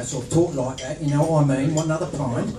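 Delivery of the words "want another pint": a light put-on cockney pub voice; cockney accent. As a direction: toss it off in mock cockney, half laughing. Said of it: "I sort of did a cockney".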